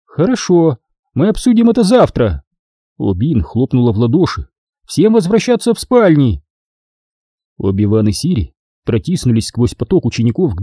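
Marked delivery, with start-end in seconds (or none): 0.1-2.4 higher, clipped-off dismissal; lightly voiced stern supervisor; curt supervisor. A narrator's reading. Obin dismissing the matter. 4.9-6.4 higher, firm order to all; lightly voiced strict warden; commanding. A narrator's reading. Obin ordering students to bed.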